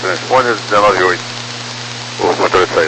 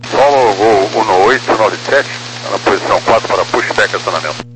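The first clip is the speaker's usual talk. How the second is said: lower, fast radio call; pilot over the radio; 6 semitones lower than usual. Real, not acted. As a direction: request pushback from the cockpit. Pilot requests pushback on radio.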